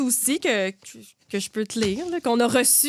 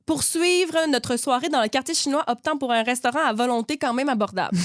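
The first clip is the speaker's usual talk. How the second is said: measured read-aloud of a listener's anecdote; light narrator's delivery; story reading. A narrator's reading. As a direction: read the submitted story out neatly.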